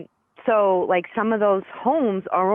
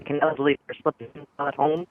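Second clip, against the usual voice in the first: bad connection; 3 dB quieter than usual. Real, not acted. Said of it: "Now you're breaking up".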